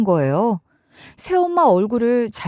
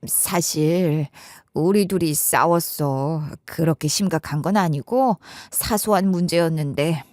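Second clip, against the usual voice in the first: put-on halting, lowered older-relative voice; hesitant admission; 5 semitones lower than usual. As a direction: admit it reluctantly, drawing out the first words. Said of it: "한참을 망설이다가 이렇게 말씀하셨어요".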